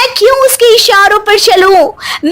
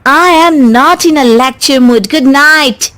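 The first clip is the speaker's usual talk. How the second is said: dismissive; 4 semitones lower, much slower than usual. Acted. Bahu brushes off father-in-law's advice.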